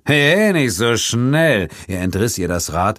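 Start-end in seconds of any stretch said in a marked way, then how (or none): 0.0-1.7 loud, high, slow command; loud menacing halt; loud stop. A narrator's reading. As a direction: bark it as he grabs. Grabbing her bike.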